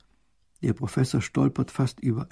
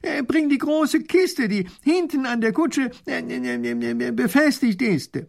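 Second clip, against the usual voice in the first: much higher, loud call to the coachman; 13 semitones higher, 5 dB louder, slower than usual. Acted. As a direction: shout the order down the hill. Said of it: "Der Professor ruft hinunter".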